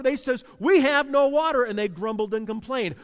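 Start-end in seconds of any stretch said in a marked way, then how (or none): 0.6-1.6 loud, higher grumble; grumbling shout. Retold or imitated. Israelites in the desert grumbling about no water, loud grumble. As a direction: complain it like a thirsty crowd.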